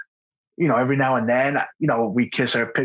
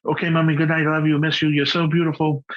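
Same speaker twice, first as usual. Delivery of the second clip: imitating a child rattling off a bedtime routine; lightly voiced kid running the phrases together; routine goodnight; 4 semitones higher than usual. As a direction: recite it like a checklist, without pausing. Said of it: "now sometimes it feels a little routine".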